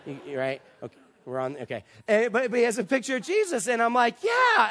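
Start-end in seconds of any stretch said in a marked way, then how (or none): 4.2-4.7 high, loud, eager cheer; acted burst of excitement; kind of excited. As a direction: agree as if your hopes just shot up. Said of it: "I'm, like, kind of excited".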